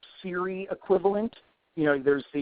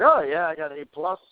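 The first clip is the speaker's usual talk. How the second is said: put-on Southern accent; faster than usual. Job applicant boasting of A plus certification, mild Southern accent. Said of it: "using that weird Southern accent".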